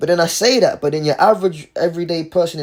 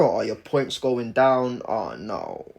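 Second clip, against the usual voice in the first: slow, sinking "oh no"; mock dismay; 4 semitones lower, 4 dB quieter, much slower than usual. Watching the points drop, mock dismay. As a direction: let it droop lower and softer.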